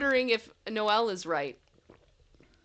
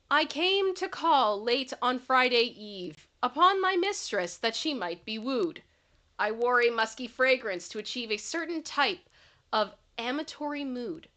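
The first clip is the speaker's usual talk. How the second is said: poem reading; 2 semitones higher than usual. Acted. Reads a poem aloud.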